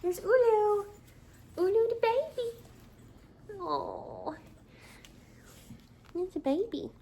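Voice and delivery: high, slow cooing at a dog. Real, not acted.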